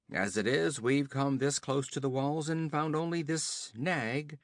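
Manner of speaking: höher und lauter, prahlerisch spöttisch; höhnischer Räuberhauptmann. Acted. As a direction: ein Wüstenräuber verhöhnt den Gefangenen. Olgerd spricht, hoch und lauter.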